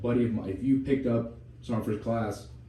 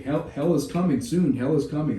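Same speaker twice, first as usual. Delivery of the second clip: higher and louder, gleeful threat; menacing drill sergeant; 5 semitones higher, 6 dB louder than usual. Retold or imitated. Drill sergeant back from school warning recruits, menacing loud threat. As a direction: warn them with a looming mock threat. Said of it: "He's like".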